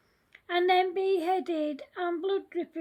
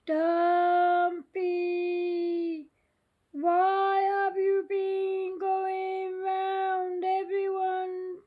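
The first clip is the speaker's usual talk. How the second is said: scary voice. Acted. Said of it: "said the scary voice".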